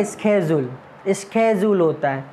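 स्केड्यूल said with a hard "sk" start, "sked-yool"; American pronunciation. Shown as a demonstration. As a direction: say स्केड्यूल with an sk sound. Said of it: "American और British pronunciation क्या होगा". (American उच्चारण स्केड्यूल, "स्क" से शुरू)

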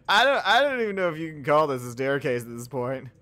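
loud laugh while talking; laughing loudly. Real, not acted. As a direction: crack up mid-line. Laughing at ugly staircase.

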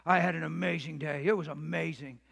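low, gruff husband impression. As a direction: play the gruff husband home from work. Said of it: "he's in a gruff voice says".

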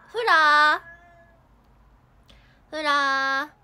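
long loud call of the pet's name. Real, not acted. To her talking pet, a long loud calling out. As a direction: hold the name out loud to call across the room.

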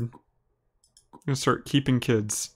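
very slow, drawn-out, oddly voiced repeat. Shown as a demonstration. Streamer repeating his own weird line, slow and strange. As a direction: stretch each word out, playing up how weird it sounds. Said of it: "That sounds weird".

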